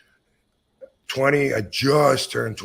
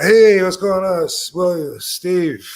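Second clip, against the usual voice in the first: retold loud cheery greeting; 7 semitones higher, 8 dB louder, slower than usual.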